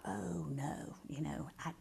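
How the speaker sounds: whispered, breath held under the bed; hushed whisper. Retold or imitated. Child hiding under her bed, whispering so her mom won't know. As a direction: whisper so Mom can't hear.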